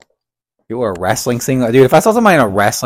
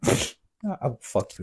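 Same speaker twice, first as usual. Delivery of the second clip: slow menacing echo; 13 dB quieter, much slower than usual. Retold or imitated. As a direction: drag it out like a threat. Echoing the threat.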